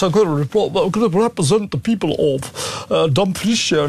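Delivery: lightly put-on Scottish accent, fast; a hint of a mock Scottish brogue, rattled off; a mild mock Scottish accent, mocking the MP. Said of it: "now speaks like this".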